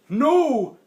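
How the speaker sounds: put-on high, loud old man no; Grandpa. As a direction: bark it as a cranky grandpa. Grandpa voiced.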